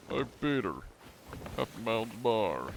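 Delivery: lightly voiced character, trying it out; Joe Swanson. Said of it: "Something like that, maybe?".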